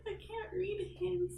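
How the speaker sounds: high, drawn-out self-mocking protest; mock lament. Joking to a friend about missing signals, high mock lament. Voicing own excuse, joking.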